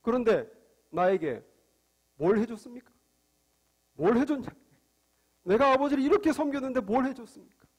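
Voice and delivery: mildly acted protest of an unrewarded son; angry outburst, acted. Older son demanding reward from father, mildly angry. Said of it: "비교하면서 화가 폭발한 겁니다".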